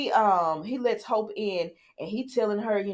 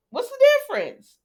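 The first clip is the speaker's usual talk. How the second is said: louder and higher repeat, driving the point; emphatic repeat; 6 dB louder than usual. Real, not acted. Vlogger pressing her point on Hope, loud emphatic repeat. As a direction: hit the question again, much higher.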